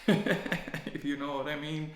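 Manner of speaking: slow, knowing line after a laugh; chuckling innuendo. Real, not acted. Speaker hinting at a lovely experience, chuckling. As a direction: let a chuckle run into the words.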